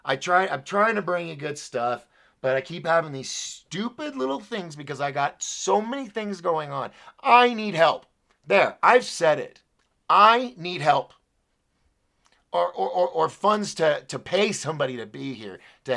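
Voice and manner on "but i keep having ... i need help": exasperated plea building to loud insistence; fed-up, emphatic venting; really frustrated. Real, not acted. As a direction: let real frustration build until it bursts out. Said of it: "I'm getting really frustrated".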